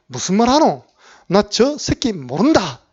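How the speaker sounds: Gyeongsang dialect, slow, spat-out curse; cursing denial. Retold or imitated. Peter cursing as he denies Jesus, in Gyeongsang dialect. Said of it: "욕하면서 부인했습니다".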